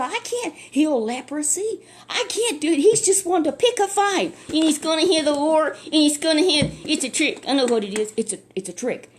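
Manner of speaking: high, loud alarmed cry of a frightened king; he's sure it's a trap, panicking; king shouting in alarm over the letter; panicked king. Acted.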